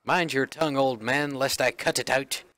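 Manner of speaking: lightly put-on British guard; British accent. Guard threatening the old peddler, British accent. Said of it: "like, British?".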